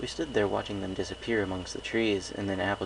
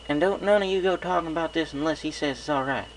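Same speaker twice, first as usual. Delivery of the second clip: a hint of a stern big sister; warning the fillies firmly; lightly voiced farm mare; 9 semitones higher, 4 dB louder than usual. A narrator's reading. Applejack country voice.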